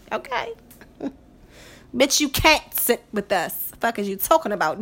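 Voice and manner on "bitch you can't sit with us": a hint of a snooty mean-girl line; lightly voiced mean-girl put-down; Mean Girls quote. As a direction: sneer it like the queen bee of the clique. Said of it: "Mean Girls".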